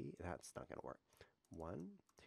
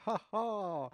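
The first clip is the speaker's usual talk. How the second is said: gleeful laugh; 9 semitones higher, 6 dB louder than usual. Real, not acted. Laughs at giving check.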